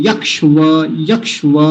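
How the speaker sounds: यक्ष व split into two parts; wrong way. Shown as a demonstration. Teacher imitating the wrong split. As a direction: pause between यक्ष and व. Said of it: "इसको यक्ष व ऐसा नहीं बोलेंगे".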